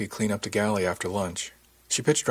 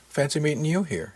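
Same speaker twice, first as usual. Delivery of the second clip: lilting, higher-pitched friendly greeting; smiling; 7 semitones higher than usual. A narrator's reading. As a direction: say it through a smile. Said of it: "said with a smile".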